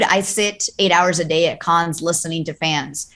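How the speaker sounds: normal talking voice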